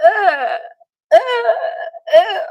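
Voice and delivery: high, loud groans of delight; three loud, self-satisfied ughs; gloating groans. Real, not acted. Mock-overcome noises of self-delight.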